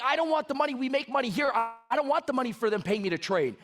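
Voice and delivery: high-pitched, appalled protest being retold; shocked and mad. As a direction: re-enact an indignant refusal, pitch easing down. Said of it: "I was so shocked, mad".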